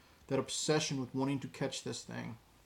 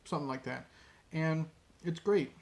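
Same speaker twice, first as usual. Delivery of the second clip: ordinary talk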